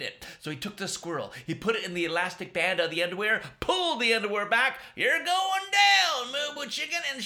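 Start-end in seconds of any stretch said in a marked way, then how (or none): 4.9-7.0 high, slow loud shout; battle cry. Acted. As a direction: yell it as you let fly. Chico fires squirrel at monster.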